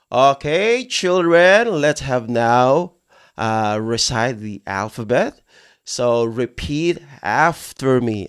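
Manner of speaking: lightly acted teacher addressing small children; kindergarten teacher. Teacher to children in a classroom setup, slow teacherly instruction. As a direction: start lifted, then slow and measured for the class. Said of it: "this is a classroom setup".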